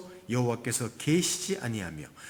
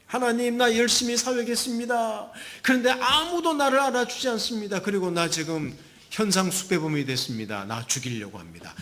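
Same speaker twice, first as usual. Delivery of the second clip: high plaintive outpouring, sinking toward the end; aggrieved complaint; 7 semitones higher than usual. Acted. Elijah complaining to God, high plaintive outpouring. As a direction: pour out a grievance, then run down.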